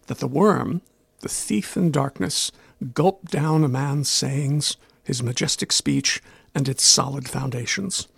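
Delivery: slow, measured poem reading in modern English, starting "A moth devoured words". Shown as a demonstration. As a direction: read the riddle slowly as a poem in plain modern English. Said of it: "and it goes like this".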